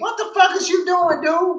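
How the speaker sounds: very high-pitched screaming. Recalling Mike Norvell's play calls: retelling screaming at the TV. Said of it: "had me fucking literally screaming at the T V".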